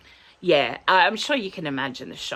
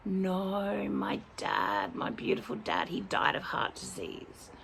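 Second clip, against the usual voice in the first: retold alarm; 3 semitones higher, 6 dB quieter than usual. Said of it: "I'm straight away going".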